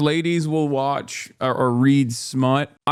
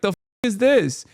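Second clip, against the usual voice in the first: higher-pitched mock rant at a TV character; imitating his outburst at the screen; 4 semitones higher than usual. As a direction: scold him like he can hear you, half joking. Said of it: "I was like".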